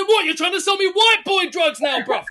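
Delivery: hammed-up indignant yelling at a dealer; outraged shout. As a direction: shout it, offended and incredulous. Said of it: "And I said".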